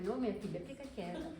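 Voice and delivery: quiet, patient shushing of a daughter; soft fatherly hush. Retold or imitated. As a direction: hush her gently, never raising the voice. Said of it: "E não levantou a voz pra mim".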